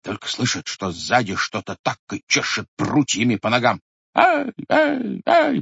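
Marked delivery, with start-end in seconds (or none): 4.1-5.6 much higher, loud ай cries; yelps of pain. Acted. Grandfather fleeing with whipped legs, high yelps. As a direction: yelp as twigs lash the legs. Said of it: "покрикивал только дед".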